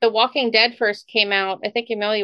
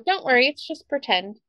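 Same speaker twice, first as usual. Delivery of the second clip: reassuring mom; 5 dB quieter than usual. Retold or imitated. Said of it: "and then I go".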